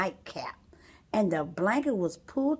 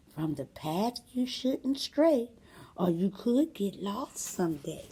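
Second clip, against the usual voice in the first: mother's rhyme. Retold or imitated. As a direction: recite it like a remembered rhyme. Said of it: "remembered what her mother said".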